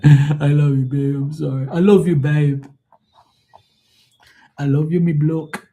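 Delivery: put-on the Pisces man gushing in an Irish accent; Irish bloke cooing. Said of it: "no more Irish, acting like some Irish jackass".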